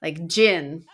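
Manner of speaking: Jin with short i; amused Jin; mispronounced name. Shown as a demonstration. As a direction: sound out the wrong Jin. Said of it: "signed my yearbook G I N".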